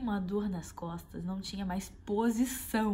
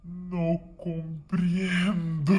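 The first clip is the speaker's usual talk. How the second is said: halting Spanish; 4 semitones lower, 7 dB louder, much slower than usual. Retold or imitated.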